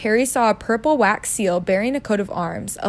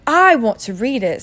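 put-on louder, insistent boy; furious; 3 semitones higher, 5 dB louder than usual. Boy claims his own letter, angrily. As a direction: insist with a touch of fury. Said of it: "said Harry furiously".

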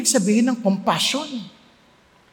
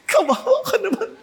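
preacher mimics crying along with a friend; mock sympathetic crying; 7 semitones higher than usual. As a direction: fake tears for a friend's lost phone. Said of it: "makikiiyak ba ako kay Renato".

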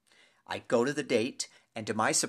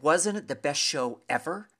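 loud, higher-pitched gushing question; ecstatic; 5 semitones higher, 6 dB louder than usual. Retold or imitated. Theatergoer raving to his neighbor about the show, ecstatic. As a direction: gush with total enthusiasm. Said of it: "I was so ecstatic about the production".

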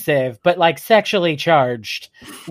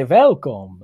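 lightly voiced Dracula; 3 semitones lower than usual. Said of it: "I had to talk like this and say".

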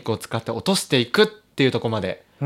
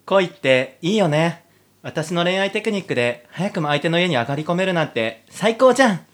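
put-on higher, girlish heroine voice, dreamy then gushing; giddy heroine; 4 semitones higher than usual. Heroine swooning over the soldier, giddy high voice. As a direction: play the lovestruck girl. Heroine character in audio drama.

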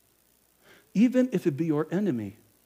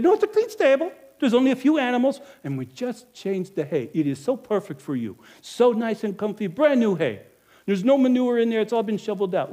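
salesman's pitch; 5 semitones higher than usual. Acted.

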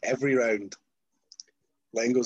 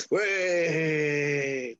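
long, higher drawn-out whoop; stretched-out pretend cheer; mock celebration; 5 semitones higher than usual. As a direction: cheer as if the win is yours. Celebrating again to an empty ring.

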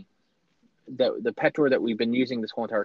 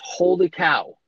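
amazed; 2 semitones higher than usual. Retold or imitated. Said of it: "and goes".

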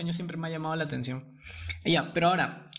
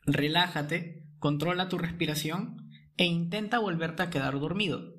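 right in your ear; 2 semitones lower than usual. Acted. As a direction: soothe a frightened sleeper back to sleep. Guides a listener in paralysis. (al oído, calmado y lento)

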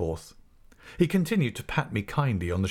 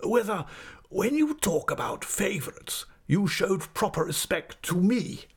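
indignant schoolmaster; 11 semitones higher than usual. Acted. Headmaster demands respect from his assistant, indignant. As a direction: climb higher in outrage on the repeated words.

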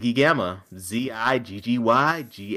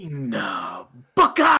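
mock royal announcement. Co-host echoes the King Booker announcement.

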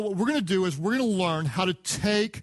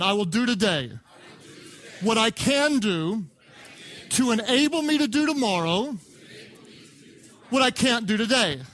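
call-and-response recitation; 3 semitones higher than usual. Shown as a demonstration. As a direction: lead the congregation through it phrase by phrase. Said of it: "repeat after me".

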